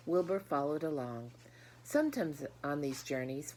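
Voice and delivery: put-on warm, expressive read-aloud to children; gentle storybook reading voice; story narration. A narrator's reading. Reads the story aloud to class.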